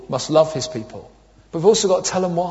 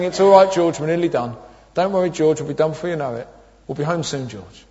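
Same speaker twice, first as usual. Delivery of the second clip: soothing reassurance; 2 semitones lower than usual. Retold or imitated. Dad soothing himself in shop.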